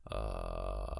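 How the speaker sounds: slow creaky vocal fry; low rattling creak. Shown as a demonstration. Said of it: "os voy a hacer ahora mismo".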